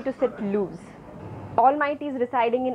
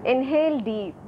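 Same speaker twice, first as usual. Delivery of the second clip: measured meditation guidance with long pauses; guided meditation. Real, not acted. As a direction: lead the breath, leaving space between phrases. Leads breathing meditation. (guided breathing meditation)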